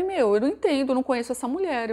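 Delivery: fed-up husband venting about his wife; exasperated outburst. Retold or imitated. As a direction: vent frustration at the wife.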